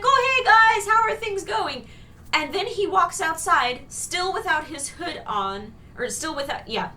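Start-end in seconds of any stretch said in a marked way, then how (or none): 0.0-1.9 high, loud, breezy hello; hammed-up chummy reply in a raised voice; mock casual greeting. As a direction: imitate an oblivious friendly returnee. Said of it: "And he's like".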